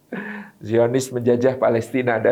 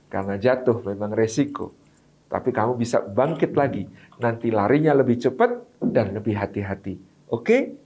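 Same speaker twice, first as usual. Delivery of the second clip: encouraging parent; 5 semitones lower than usual. Shown as a demonstration. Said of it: "berikan ucapan selamat".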